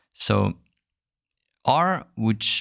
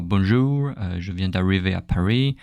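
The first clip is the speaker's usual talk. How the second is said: another imitated learner with a wrong R; lightly voiced foreigner saying "bonjour, je viens d'arriver à Paris" with an off R; foreign accent. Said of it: "the R is not correct".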